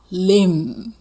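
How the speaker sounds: Limb said with a silent b, like lim. Shown as a demonstration. Teacher shows students the silent b in Limb. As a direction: end Limb on the m with no b. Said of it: "B不发音".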